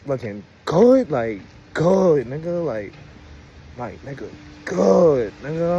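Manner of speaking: drawn-out, punched GOOD; emphatic admiration. Real, not acted. Man raving about how good she looked, stressing a drawn-out GOOD. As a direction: stretch each GOOD long with relish.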